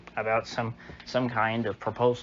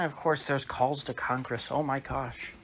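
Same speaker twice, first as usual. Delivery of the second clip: ordinary talk, nothing marked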